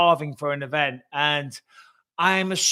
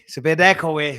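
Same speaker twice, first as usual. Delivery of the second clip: louder to hear the echo; testing the echo; 6 dB louder than usual. Shown as a demonstration. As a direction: project it to test the room's echo.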